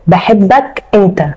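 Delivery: said very slowly, each word drawn out; slow confession. Acted. Wife confessing love to her husband's brother, slowly. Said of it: "ايه؟".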